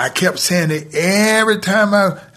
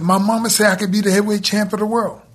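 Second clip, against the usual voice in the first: higher and fast, pushed repeat; insistent repeat; 5 semitones higher, faster than usual. Retold or imitated. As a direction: say it again faster because he didn't hear.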